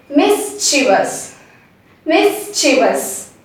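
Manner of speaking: "mischievous" slowly as "MIS-chi-vus"; three slow syllables, "mischievous" ending "vus"; careful model pronunciation. Shown as a demonstration. Teacher introduces the next word, slow model pronunciation. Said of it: "is pronounced correctly".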